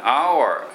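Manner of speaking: hour said as "aa-wa", two clear syllables; the textbook Japanese hour with a full vowel; hour as Japanese learn it. Shown as a demonstration. Teacher showing students the memorised hour, carefully. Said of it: "覚えてしもうてるんですけど".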